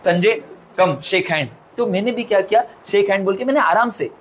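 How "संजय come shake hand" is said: put-on slow, gentle old teacher voice; slow old lady. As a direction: draw each word out like an elderly madam. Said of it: "बोलती है". (धीमी बुज़ुर्ग madam की आवाज़)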